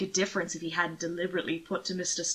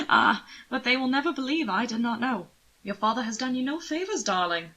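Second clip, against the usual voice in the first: higher, teasing and fond; amused nobleman; 4 semitones higher than usual. Acted. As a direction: tease the frightened boy gently. Anthony teases Will.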